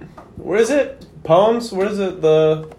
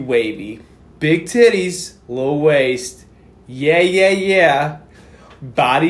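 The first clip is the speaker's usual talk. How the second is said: dramatic poem reading. Pretend. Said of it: "read 'em like a dramatic poem".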